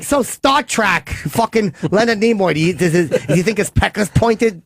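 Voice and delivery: Chip grilling a guest about Star Trek, lightly voiced. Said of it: "I'm not gonna go like".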